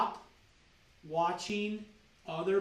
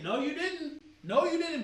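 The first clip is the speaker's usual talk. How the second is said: firm, flat contradiction, said twice; blunt retort; 6 semitones higher than usual. Acted. Doctor cutting off a patient's excuse, firmly. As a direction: shut the excuse down.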